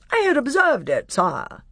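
shrill, high, gallant mouse; Reepicheep. A narrator's reading. Mouse petitioning the king to be marshal, shrill and proud. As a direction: pipe it with proud formality. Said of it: "a shrill voice".

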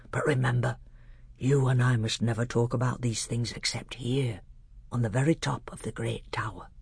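a hint of a grave old scholar; old doctor.

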